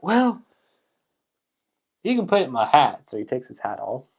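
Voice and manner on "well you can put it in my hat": much higher, louder daft voice; cheerful simpleton solution, voice way up; simple Irishman. Retold or imitated. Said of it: "so he's like".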